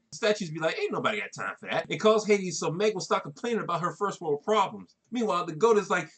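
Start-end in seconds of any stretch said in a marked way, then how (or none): 0.8-1.8 lower-pitched meme quote; meme catchphrase voice. Retold or imitated. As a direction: toss off the viral line in a lower voice.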